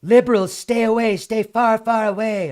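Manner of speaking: hammed-up grumpy local shouting them off; angry commenter. Mocking a hostile commenter's reply, loud mock rant. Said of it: "this person writes back".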